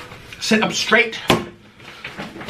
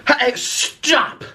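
sharp shout; 8 semitones higher than usual. Real, not acted. Scolding the dog.

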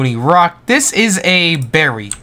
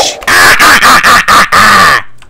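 loud cackling witch laugh; witch cackle; 4 semitones higher, 6 dB louder than usual. Acted. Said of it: "Razor's Witch Voice".

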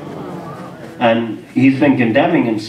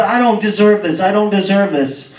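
higher-pitched, insistent imitation of crying; mock tearful refusal; retold tearful protest; 6 semitones higher than usual. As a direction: plead it as if overwhelmed. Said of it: "Now he's crying, saying".

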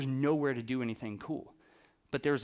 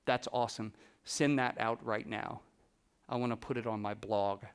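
lightly imitated, low, soft star; a hint of a low, unhurried celebrity voice; 4 semitones lower, 5 dB quieter than usual. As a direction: mimic him lightly, low and understated. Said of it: "'Cause that's how he talks".

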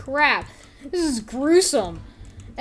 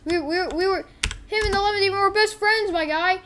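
hurt complaint climbing higher; mock indignation, building to a high pleading rush; indignant protest; 5 semitones higher than usual. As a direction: argue back like a betrayed friend, pitch rising. Betrayed friend argues back in story.

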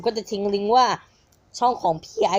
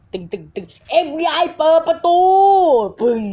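mock FBI raid; 8 semitones higher, 8 dB louder than usual. Joking FBI raid meme.

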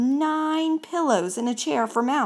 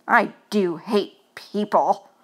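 lightly voiced fussy mouse, slow and firm; grumpy mouse; 4 dB louder, slower than usual. Mouse grumbling about people, a hint of fussiness. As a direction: grumble it slowly.

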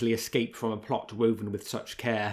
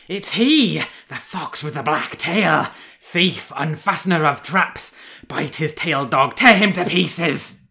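high, loud yells of accusation; shrill, powerful shouting; 6 semitones higher, 10 dB louder, slower than usual. A narrator's reading. Hunter ordering his mongrel onto the thieving fox, shrill shout. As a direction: savagely set the dog on him. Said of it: "as shrill as it was powerful".

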